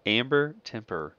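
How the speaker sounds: slipped into an Asian accent; accidental Asian accent on Amber Temper. Real, not acted. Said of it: "you just did an Asian accent out of nowhere".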